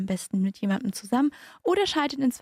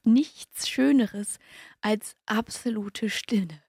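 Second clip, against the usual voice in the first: slow, spaced-out radio lead-in; scene-setting radio intro; slower than usual. Acted. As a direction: linger on each phrase, pausing between them. Scene-setting lead-in to loneliness report.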